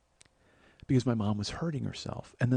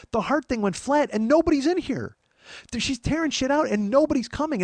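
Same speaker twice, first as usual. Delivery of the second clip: retold alarm; 13 semitones higher, 5 dB louder than usual. Retelling panic as no help comes.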